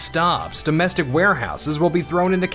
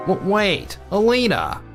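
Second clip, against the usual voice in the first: stammered, higher-pitched call; panicked plea; 5 semitones higher than usual. Acted. Dumped fiancé calls after Alina, panicked plea. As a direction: stumble into a desperate appeal. Fiancée has just ended engagement.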